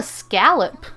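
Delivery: "scallop" with a short a, as in "pal"; read as written. Retold or imitated. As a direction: say "scallop" to rhyme with "gallop". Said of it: "it's not pronounced scallop".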